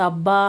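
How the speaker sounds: short irritated exclamation; a cross little wince; annoyed ouch. Acted. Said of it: "అంటూ విసుక్కున". (విసుగ్గా అబ్బా)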